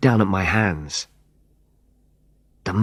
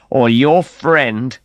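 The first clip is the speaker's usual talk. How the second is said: slow threat; 3 semitones higher, 4 dB louder, much slower than usual. Acted. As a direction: let the threat hang. Antonio threatens with gun.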